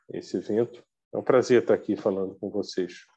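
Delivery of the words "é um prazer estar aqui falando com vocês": muffled behind a face mask; through a face mask. Real, not acted. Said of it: "Peço licença para falar de máscara".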